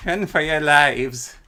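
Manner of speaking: loud, slow hammed-up cry to flee; mock panic shout. Streamer fleeing danger in game, mock panicked shout. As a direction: sound the alarm in jest, drawn out.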